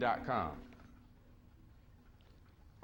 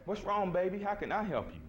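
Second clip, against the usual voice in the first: higher-pitched imitated solicitude; loving brother; 6 semitones higher than usual. Husband offering crying wife help, imitated loving concern. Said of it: "passionate brothers who love our sisters".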